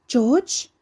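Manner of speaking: high, loud woman calling; sibilant woman's voice. A narrator's reading. Mother calling down from upstairs, sibilant and high. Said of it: "A sibilant woman's voice whiffled down from upstairs".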